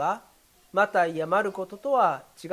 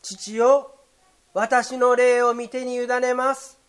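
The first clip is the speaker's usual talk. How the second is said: a loud cry; 3 semitones higher, 4 dB louder, slower than usual. Shown as a demonstration. Preacher voicing Jesus crying out to the Father, loud. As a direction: call it out clearly so all around can hear. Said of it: "周りの人たちにもはっきりと聞こえる声で".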